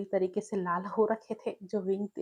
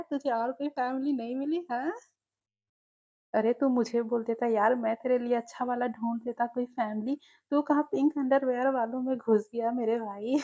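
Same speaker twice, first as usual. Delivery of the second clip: mocking friend; 3 semitones higher than usual. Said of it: "जोर-जोर से हंसने लगा था".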